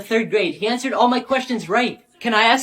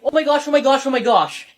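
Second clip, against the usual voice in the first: imitating the voice; 2 semitones higher than usual. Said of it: "It sounded just like".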